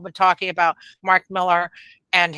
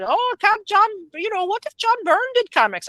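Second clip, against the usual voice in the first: high mocking impression, quite a bit higher; mocking Millar; 11 semitones higher than usual. Host mocks Millar's Twitter hype in a high voice. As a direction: lampoon him hyping old creators. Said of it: "standing there beating the drums and talking about".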